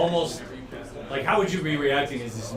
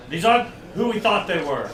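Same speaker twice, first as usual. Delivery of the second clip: yelled explanation; 4 semitones higher, 4 dB louder than usual. Acted. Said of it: "he, he yells out".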